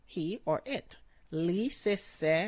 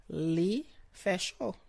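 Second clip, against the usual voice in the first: slow demo. Shown as a demonstration.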